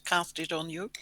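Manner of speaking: talking while eating; words round a bite of food; mouth full. Real, not acted.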